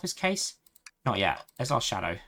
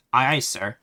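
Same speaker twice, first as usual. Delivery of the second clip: a light stiff robotic salute; 3 semitones lower, 3 dB louder, slower than usual. Pretend. The player answering the game as a robot, lightly mechanical. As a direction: answer like an obedient machine, half in jest. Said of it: "I did a robot voice there".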